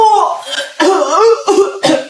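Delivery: hammed-up coughing fit; old man's coughing fit. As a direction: cough and splutter helplessly. Old boyfriend coughs after boasting strength.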